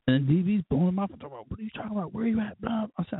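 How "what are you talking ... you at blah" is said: mock questioning. Imitating D B on the phone.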